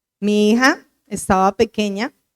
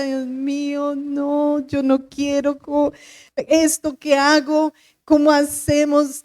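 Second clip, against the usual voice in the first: crying; 3 semitones higher, slower than usual. Retold or imitated. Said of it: "Y yo lloraba".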